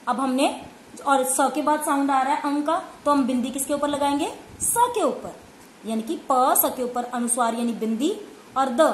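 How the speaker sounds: ordinary talk, nothing marked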